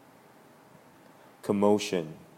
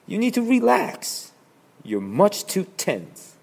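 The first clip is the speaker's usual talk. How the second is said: laughing; 4 semitones higher, 7 dB louder than usual. Acted.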